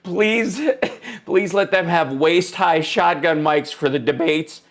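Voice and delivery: laughter breaking into a plea; dying laughing. Real, not acted. Streamer begging for shotgun mics at debates, dying laughing. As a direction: plead between real bursts of laughter. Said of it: "I'm dying over here".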